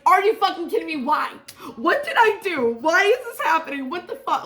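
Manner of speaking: high, loud comic outrage; hammed-up pleading protest, question after question; mock exasperation. Protesting to nobody over spilled trash, mock exasperated. Acts out dropped-trash outburst.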